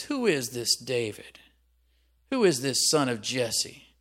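surly, emphatic challenge. Acted. Nabal answering David's servants, surly. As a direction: put on a surly, dismissive tone. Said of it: "trying to be surly here".

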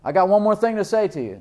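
high, loud call to stop; emphatic interruption. Acted. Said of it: "That's an idea stopper".

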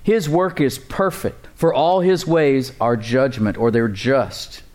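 slow, weighty reading of scripture. Real, not acted. Pastor reading the verse to the church, slow and weighty. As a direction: lean on each word of the verse. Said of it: "Look at the words here with me".

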